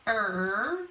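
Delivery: "er" held long as a lone sound; "er" drawn out, as in bird; sounded-out phoneme. Shown as a demonstration. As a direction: stretch out "er" for the class. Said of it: "Combination I R says er".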